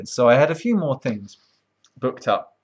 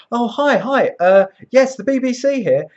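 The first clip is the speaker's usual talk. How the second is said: chirpy producer; 10 semitones higher, 5 dB louder than usual. Retold or imitated. Imitating the BBC caller.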